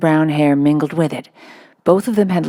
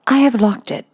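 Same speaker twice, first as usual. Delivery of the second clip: queer polite little voice; 7 semitones higher than usual. Acted. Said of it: "said a queer, polite little voice".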